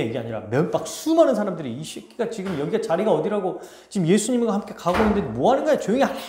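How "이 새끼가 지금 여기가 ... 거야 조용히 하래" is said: scolding. Acted. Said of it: "사람들이 꾸짖었어요".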